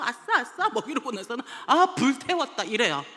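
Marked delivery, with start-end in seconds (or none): 0.0-0.7 much higher, playful chant; cheeky kids. Retold or imitated. Girls dancing to disrupt. 1.7-2.6 louder and higher, smug sigh; girl plopping down after disrupting, louder; cheeky kid. Retold or imitated.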